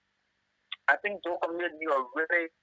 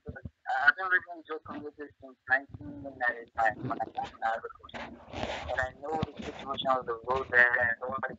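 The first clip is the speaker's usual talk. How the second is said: speaking away from the phone; distant, off-mic caller; phone held away; 4 semitones lower, 4 dB quieter than usual. Real, not acted. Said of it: "could you please speak into the phone a little bit because it's difficult for me to hear you".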